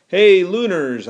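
loud, high, drawn-out hail; calling out. A narrator's reading. Boy hailing the lunar soldiers as he runs, calling out. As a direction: call to them across a distance. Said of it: "I called as I ran".

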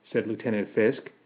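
ordinary delivery

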